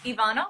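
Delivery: "Ivana" with an open ah, stressed in the middle; Ivana said ee-VAH-na. Shown as a demonstration. Guest confirms own name, "Ivana" pronounced ee-VAH-na. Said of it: "you said it right the first time".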